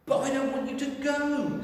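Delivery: put-on high, loud childlike protest; pleading little bear. Teddy protesting Clive leaving, high and pleading.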